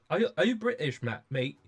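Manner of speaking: lightly put-on British geezer; a touch of old British geezer; old geezer accent. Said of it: "my old geezer accent".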